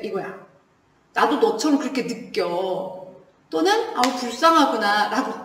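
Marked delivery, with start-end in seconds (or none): 1.1-3.0 low, soft and slow sympathy; quietly understanding; empathetic. Acted. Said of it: "공감이라는 거는". 3.9-5.1 lower, softer note of pity; gently commiserate; hushed, mild compassion; sympathetic. Acted. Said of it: "공감이라는 거는".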